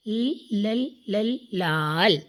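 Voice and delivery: repeated ل then slow لال; sounding out the first letter. Shown as a demonstration. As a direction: beat out ل ل before لال. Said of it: "یہ کون سا رنگ ہے". (ل کی آواز دہرا کر لال)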